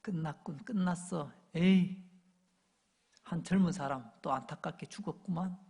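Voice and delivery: understated, resigned onlooker; a touch of let-down pity; acted disappointment. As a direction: give up on it with a mild sigh of regret. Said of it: "사람들이 실망하며".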